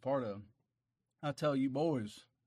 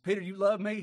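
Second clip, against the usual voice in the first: the Lord asking; 7 semitones higher, 7 dB louder than usual. Acted. Lord's question acted.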